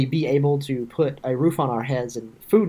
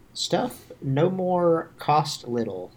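mock caveman talk; 4 dB quieter, much slower than usual.

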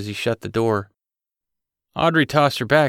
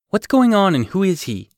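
high, loud eager questions; excited; 9 semitones higher, 5 dB louder than usual. Acted. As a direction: press him, eager and high. Excited daughter pressing.

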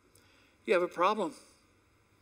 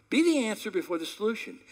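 emphatic declaration; 5 semitones higher, 4 dB louder than usual. Acted. Preacher proclaiming the sermon's theme, emphatic.

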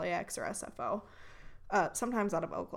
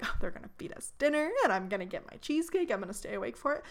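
excited; 2 semitones higher, faster than usual. Retold or imitated. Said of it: "I was so excited".

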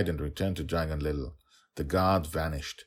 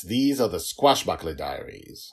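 dramatic intro; 3 semitones higher, 9 dB louder than usual. Acted. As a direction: boom it out like a film hero. Dramatic opening line.

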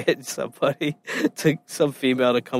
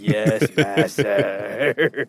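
Igor; 5 semitones lower, much slower than usual. Pretend. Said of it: "I'll be Igor".

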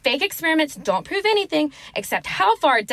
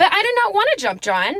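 whiny refusal; 7 semitones higher, 3 dB louder than usual. Acted. Refusing to jump.

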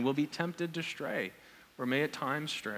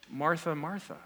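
softer, tender doubled name; affectionate repetition; 4 dB quieter than usual. Retold or imitated. Jesus addressing Martha by name, gently affectionate. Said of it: "expressing emphasis and, and affection".

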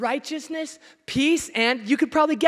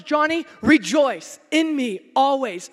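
slowed and louder, personal call; slow divine address; 5 dB louder, slower than usual. Retold or imitated. Preacher voicing God speaking to him this morning. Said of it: "God says".

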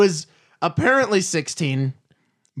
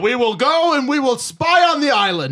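fifties radio voice; 5 semitones higher, 3 dB louder than usual. Retold or imitated. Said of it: "he speaks like a fifties radio guy".

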